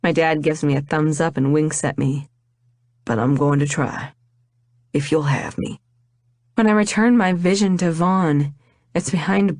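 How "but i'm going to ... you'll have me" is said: a lower male voice, sincere and earnest; lightly voiced lover proposing. Vaughn proposing to Rain at the wedding, lightly voiced sincere man. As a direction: pour your heart out as the man proposing.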